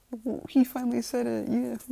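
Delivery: high, loud tearful celebration; stammer, then whoop with joy; overjoyed father. Acted. Father crying as son finally said it, overjoyed.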